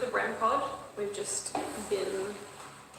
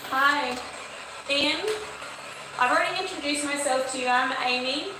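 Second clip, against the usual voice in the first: coaxing call; 3 semitones higher than usual. Real, not acted. Calling out to a child spirit.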